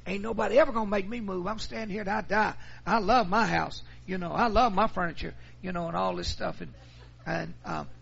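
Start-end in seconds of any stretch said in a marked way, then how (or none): 0.1-5.3 loud, high, fast defiant mother; mock-angry insistence on staying put; hammed-up furious old mama refusing to move; mad mother. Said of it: "she was mad".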